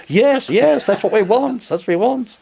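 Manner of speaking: high, excited, approving voice; delighted approval. Retold or imitated. The program director approving his audition, high excited approval. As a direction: cheer it like the boss who finally hears the right read. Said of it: "people said".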